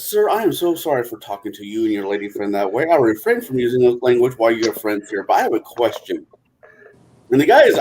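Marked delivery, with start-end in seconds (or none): 0.0-6.3 calm. Acted. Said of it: "looks at him very calmly and says".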